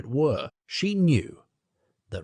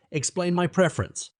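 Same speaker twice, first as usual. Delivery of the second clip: raging scorn; 8 semitones higher than usual. A narrator's reading. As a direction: spit the words back in rage. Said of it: "snatching up Rosamond's words again".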